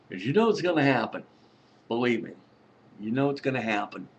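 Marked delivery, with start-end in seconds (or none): 0.1-1.2 laughing through it, a little fast. Real, not acted. Vlogger laughing as he warns viewers. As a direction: chuckle the words out quickly. Laughing while repeating a warning.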